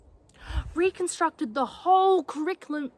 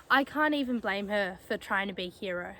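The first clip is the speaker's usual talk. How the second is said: low, soft admission; subdued, sorrowful confession; resigned grief; 6 semitones lower, 6 dB quieter than usual. Acted. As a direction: admit it quietly, weighed down. Grieves mother's sacrifice.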